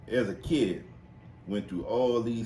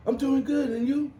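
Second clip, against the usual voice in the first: imitating old man; 5 dB louder than usual. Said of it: "he was like this".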